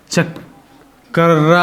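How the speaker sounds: ಚಕ್ರ stretched very slowly, each sound drawn out; ಚಕ್ರ dragged out so the ಕ್ರ cluster is heard; syllable by syllable. Shown as a demonstration. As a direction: spell out ಚಕ್ರ slowly for the class. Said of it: "ನೋಡ್ರಿ, ಕ ಅರ್ಧ, ರ ಅರ್ಧ".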